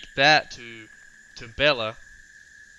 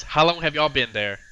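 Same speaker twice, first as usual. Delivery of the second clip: loud, raised-pitch kobold yell; 3 semitones higher, 7 dB louder than usual. Acted. Older kobold yells at the party behind her, yelling. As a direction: call it out loudly across the group. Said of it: "and she, and yells".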